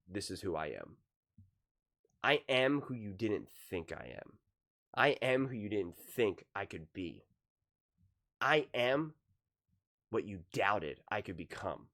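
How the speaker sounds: measured, pausing imitation of a proven quarterback; understated defiant declaration. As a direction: let each statement land quietly.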